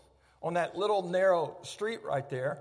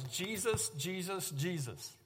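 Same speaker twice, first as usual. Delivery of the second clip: desperate soft plea; 7 dB quieter, slower than usual. Retold or imitated. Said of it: "only thing I could get out".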